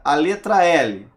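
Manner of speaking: "L" said with an open first e, like "éle"; letter L said with a wide, open é. Shown as a demonstration. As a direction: open up the e in "L", firm and loud. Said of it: "A pronúncia é aberta".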